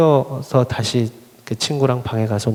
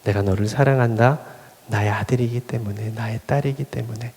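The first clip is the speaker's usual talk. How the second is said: tender voice of God. Retold or imitated. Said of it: "말씀하시는 말씀".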